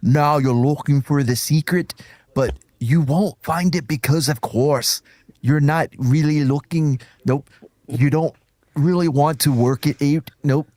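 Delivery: Michael Caine impression. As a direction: do it as a Cockney actor. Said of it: "read in an accent ... like Michael Caine".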